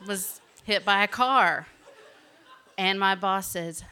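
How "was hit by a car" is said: breathy laugh, then "was hit by a car" said through laughter; real laughter. Real, not acted. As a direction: laugh it off as you tell them. Laughing at her own mishap.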